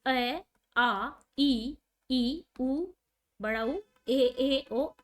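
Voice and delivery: each vowel sound अ, आ, ई, उ, ए, ओ said out slowly and distinctly one by one; vowel sounds demo. Shown as a demonstration. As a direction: sound out अ आ ई उ ए ओ clearly for the class. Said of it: "अगर उसकी आवाज".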